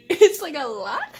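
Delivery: laughing through the words. Real, not acted. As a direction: let the laugh spill over it. Laughing about the porn.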